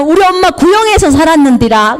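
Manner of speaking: put-on gleefully slipping into a Jeolla accent; happy, light Jeolla country talk; 신나서 전라도 사투리로; Jeolla dialect. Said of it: "전라도 말로 막 하는데".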